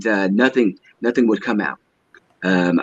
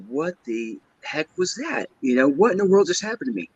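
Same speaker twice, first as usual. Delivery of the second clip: higher and quicker, a stunned mock exclaim to himself; bewildered disbelief; 6 semitones higher than usual. Recalling sleep paralysis, he asks himself in bewildered disbelief. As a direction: replay the shock as if you just woke up. Retold stunned thought after episode.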